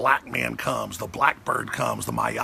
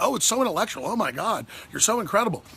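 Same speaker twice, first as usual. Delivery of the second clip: mock adoration; 6 semitones higher than usual. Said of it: "It's like".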